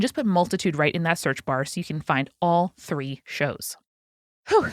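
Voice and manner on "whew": breathless whew. Real, not acted. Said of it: "I'm a little out of breath".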